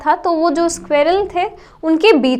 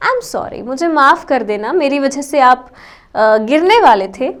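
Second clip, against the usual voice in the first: lovingly apologetic; 2 semitones lower than usual. Retold or imitated. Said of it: "बहुत प्यार से बोला".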